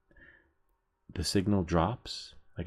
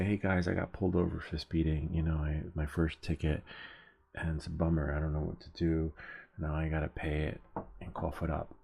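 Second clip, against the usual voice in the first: understated, slightly subdued bummed-out update; mock sheepish confession. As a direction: play at owning up to a first slip. Imagined confession of first ticket.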